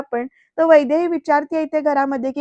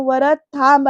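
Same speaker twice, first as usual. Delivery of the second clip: shout; 4 dB louder, slower than usual. Retold or imitated. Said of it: "असं म्हणत वैदेही ओरडते".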